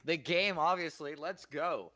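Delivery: high, loud and eager; excited. Real, not acted. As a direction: blurt it out with glee. Eager answer about the game.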